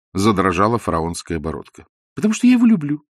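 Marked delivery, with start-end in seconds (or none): 2.1-3.1 much higher, louder retort; exasperated wife. A narrator's reading. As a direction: throw it back at the husband, high-pitched. Wife snaps back in quarrel. (высоким голосом, с вызовом)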